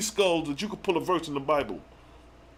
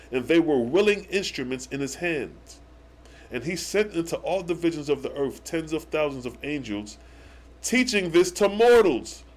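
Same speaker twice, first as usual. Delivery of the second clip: scripture reading. Acted. Teacher reading a verse to viewers, measured scripture reading. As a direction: read it out deliberately, phrase by phrase.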